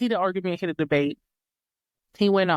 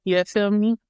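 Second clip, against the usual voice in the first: Jamaican greeting. Pretend. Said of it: "you need a good Jamaica accent".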